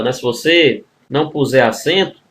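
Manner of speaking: ordinary talk, nothing marked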